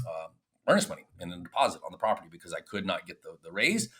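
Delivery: ordinary delivery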